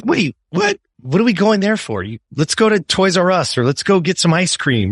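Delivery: a mock-baffled mother, high; surprised mom. Mom surprised her son wants the sports store: high, puzzled.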